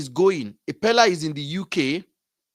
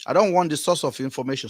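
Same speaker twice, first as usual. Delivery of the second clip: rushed, blurred by chewing gum; faster than usual. Real, not acted. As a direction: talk around a wad of chewing gum. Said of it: "I have chewing gum in my mouth".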